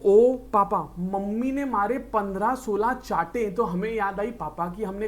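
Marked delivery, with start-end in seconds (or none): 0.0-3.5 mock wail to papa. Child crying to papa.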